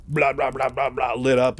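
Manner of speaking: mock machine-gun burst made with the mouth; imitated gunfire. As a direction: rattle off rapid blahs like bullets hitting. Imitates gunfire hitting the falling marine.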